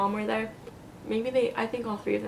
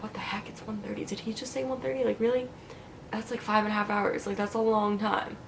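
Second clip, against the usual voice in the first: soft, hushed inner voice, much quieter; inner thoughts; 5 dB quieter than usual. Retold or imitated. Groggy after surgery, hushed disbelieving inner monologue. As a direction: think it to yourself under your breath. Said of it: "I was thinking all of it".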